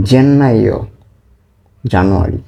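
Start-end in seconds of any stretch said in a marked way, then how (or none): 0.1-0.8 জেন্নাইও said higher, with a held double n; Italian pronunciation demo. Shown as a demonstration. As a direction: model জেন্নাইও for learners, falling at the end. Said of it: "আমি আবার বলছি". (জেন্নাইও টানা ‘ন্ন’ দিয়ে স্পষ্ট Italian উচ্চারণ)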